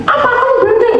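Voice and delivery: very high, loud indignant retort; angry mother. Retold or imitated. Mother overhearing her child, loud high indignant retort. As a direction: hit back hard like an offended mother.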